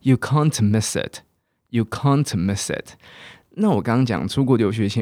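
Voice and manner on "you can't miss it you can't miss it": "can't" with a long open ah; slow "you can't miss it", British vowel; drawn-out British "can't". Shown as a demonstration. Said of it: "你不能错过这个机会啊".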